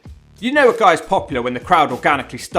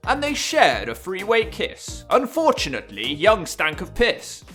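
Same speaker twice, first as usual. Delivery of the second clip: erotic novel narration; 4 semitones higher, slower than usual. Pretend. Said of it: "narration of erotic novels".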